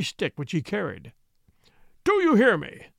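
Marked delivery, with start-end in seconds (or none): 2.0-2.9 loud, higher angry demand; cried out. A narrator's reading. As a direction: bellow it across the vault. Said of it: "he cried".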